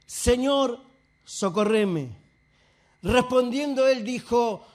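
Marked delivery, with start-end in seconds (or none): 0.1-2.1 falling, more restrained plea; subdued pleading. Retold or imitated. Woman humbled before Jesus begs for help, subdued plea. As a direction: let the plea sink humbly at the end.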